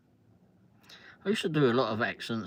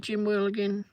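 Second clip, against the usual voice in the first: calling a name; 8 semitones higher than usual. Real, not acted. Calling out to chat viewer.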